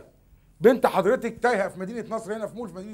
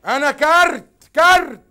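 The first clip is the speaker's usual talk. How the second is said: louder, higher, drawn-out words; exasperated repetition; 4 semitones higher, 6 dB louder, slower than usual. Acted. Telling the mother about phone credit, loud and exasperated. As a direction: stretch each word out for the listener. Repeats to uncomprehending caller.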